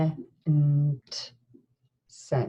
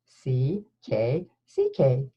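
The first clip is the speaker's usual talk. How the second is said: slow letter spelling; 3 semitones lower, slower than usual. Shown as a demonstration. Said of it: "what are the ways we spell K".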